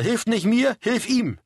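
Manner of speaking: high-pitched, restrained yell; narrator's mild shout; urgent shout. A narrator's reading. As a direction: call out a correction urgently. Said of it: "schrie Karl".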